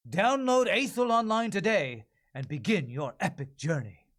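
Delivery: big, sweeping trailer voice; game trailer ad read. Acted. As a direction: sell the epic adventure. Reading a game ad script.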